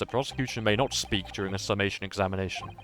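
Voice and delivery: courtly sneering prosecutor, savouring each word; lightly voiced haughty prosecutor. Prosecutor addresses the court, lightly voiced with disdain. Voices Lord Van Zieks.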